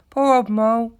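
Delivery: high, loud, cooing sympathy; kindly sympathy. A narrator's reading. Rat to the injured mole, kindly. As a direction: commiserate kindly with a hurt friend. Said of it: "said the rat kindly".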